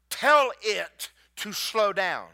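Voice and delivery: slow, deliberate, each word weighted; God's quiet command. Retold or imitated. Preacher voices God telling him to slow the storm, slow and weighty. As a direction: lay it down slow like a voice from above. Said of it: "then he said to me".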